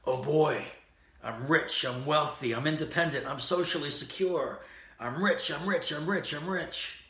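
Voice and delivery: high gleeful cartoon duck voice; excited Daffy Duck. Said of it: "he describes himself this way".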